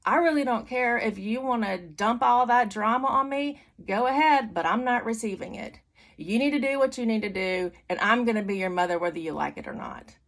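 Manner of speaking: emphatic mother setting a boundary; firm, unapologetic retort; unaffected firmness. Retold or imitated. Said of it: "it didn't affect me".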